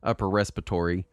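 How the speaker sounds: raspy sick voice; smoker's rasp. Real, not acted. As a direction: talk through a sore, raspy throat. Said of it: "if I sound extra raspy".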